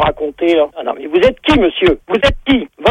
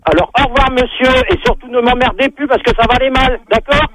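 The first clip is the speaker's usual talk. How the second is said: raised, higher-pitched warning; angry sign-off; 5 semitones higher than usual. Real, not acted. Gendarme warning a prank caller off for good, angry. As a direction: end the call with an irritated threat. Gendarme ends call with a threat.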